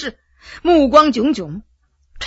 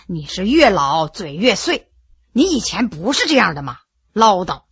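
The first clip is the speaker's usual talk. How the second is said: low, soft husbandly grumble; understated grumbling, pitched down; mild grumbling; 6 semitones lower, 4 dB quieter than usual. Acted. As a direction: lightly chide a fussing wife. Husband grumbling at his fussing wife.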